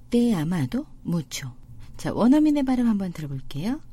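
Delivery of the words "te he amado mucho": very slow, careful; slow demo. Shown as a demonstration. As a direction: lay out each word for learners.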